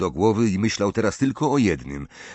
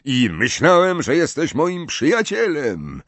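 higher-pitched cry of reproach; imagined shouting; 5 semitones higher than usual. A narrator's reading. Harry pictures Ron accusing him, crying out. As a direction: accuse a friend of betrayal. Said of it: "wykrzykującego coś takiego".

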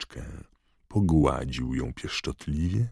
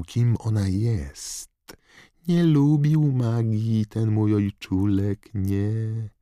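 sneering villain; 7 semitones higher than usual. Acted. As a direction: sneer at the muggle father. Voldemort tells his history.

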